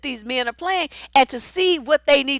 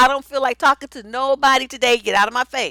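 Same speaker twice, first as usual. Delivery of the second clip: plain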